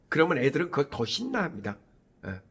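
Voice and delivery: usual speaking voice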